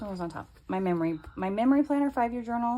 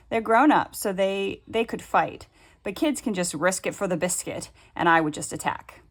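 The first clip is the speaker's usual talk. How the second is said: quoting daughter; 7 dB louder than usual. Retold or imitated. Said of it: "she goes".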